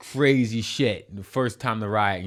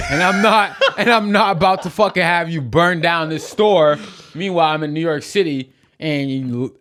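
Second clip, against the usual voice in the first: much louder and higher, laughing through the outburst; heated retold rant; 8 semitones higher, 9 dB louder than usual. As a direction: rant back at her, half laughing, half furious.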